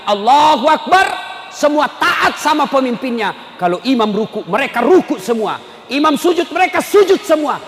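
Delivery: emphatic preacher, lifting in waves; forceful preaching. Real, not acted. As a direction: punch out each act of obedience.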